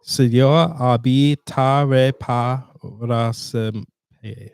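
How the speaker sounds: "Señor abi ta re pa ra sem" read slowly syllable by syllable, Spanish-like vowels; phonetic Spanish reading. Shown as a demonstration. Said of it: "let's just look at this last line".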